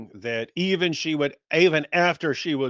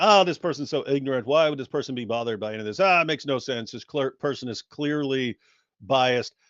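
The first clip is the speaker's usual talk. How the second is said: ordinary talk, nothing marked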